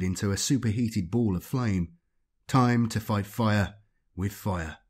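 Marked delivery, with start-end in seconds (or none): 2.5-4.8 grim. Acted. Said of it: "Levi thought grimly".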